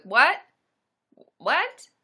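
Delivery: rising, loud disbelieving what; can't believe anyone says that; a sharp outraged double take; incredulous what. Real, not acted. Reacting to victim blaming.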